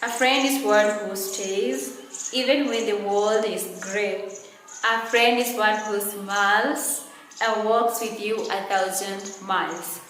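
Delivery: measured classroom poem recitation; teacher reciting a short rhyming poem; poem reading. Shown as a demonstration. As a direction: read the verse aloud line by line, evenly. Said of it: "I'm gonna read it".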